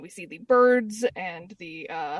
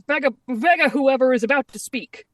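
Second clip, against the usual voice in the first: rowdy shout; 5 semitones higher, 7 dB louder than usual. Retold or imitated. Rowdy pirates shouting over each other.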